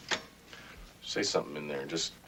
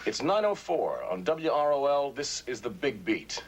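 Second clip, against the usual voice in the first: radio DJ announce. Acted. DJ to his radio audience, punchy on-air patter. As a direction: sell the show to the listeners.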